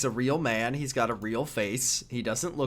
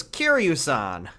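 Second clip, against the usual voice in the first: put-on American accent; slower than usual. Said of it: "he goes".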